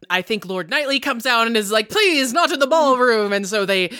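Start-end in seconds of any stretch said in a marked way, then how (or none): 1.9-3.3 mock plea. Host pleads with duelists.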